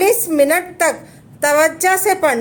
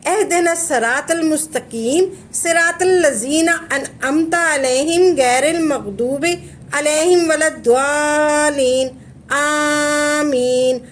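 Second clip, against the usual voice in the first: slow, drawn-out Arabic chant; Quranic recitation; slower than usual. Shown as a demonstration. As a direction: intone the verses and stretch the final amen. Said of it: "आपने ऐसे पढ़नी है".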